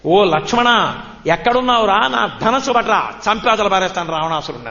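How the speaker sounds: put-on child Krishna calling out as Rama, half-shouted; mock urgent cry. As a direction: imitate an urgent summons. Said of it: "ఒక్క పెద్ద కేకేశాడు".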